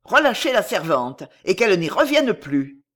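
dignified, lightly voiced command; stern, dignified order. Bailiff orders the guards to release the servant, stern and dignified. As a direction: give the order with firm authority. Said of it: "D'un air digne et sévère, le bailli ordonna".

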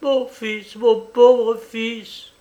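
high, drawn-out lament over a son; mother mourning over her poor boy; keen it slowly, pitched high; murmured lament. A narrator's reading. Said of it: "murmurait-elle".

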